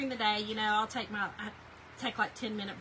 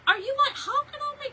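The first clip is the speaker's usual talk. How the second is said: high, loud mock outrage; retelling her reply to her husband, squeaky and indignant; indignant retort; 13 semitones higher, 5 dB louder than usual. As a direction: fire it back at him, half joking.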